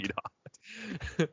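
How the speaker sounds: very high, soft and slow goofy echo; silly dumb voice. Retold or imitated. Cohost echoing the dumb line, slow high goofy voice. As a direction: stretch it out like a dimwit.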